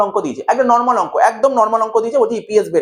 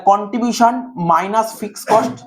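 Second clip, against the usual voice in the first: measured, word-by-word teacher delivery; unhurried dictation; 2 semitones higher than usual. Real, not acted. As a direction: spell out the formula unhurriedly for students. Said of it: "দেখ আস্তে আস্তে বলছি". (ধীরে ধীরে, থেমে থেমে বলা)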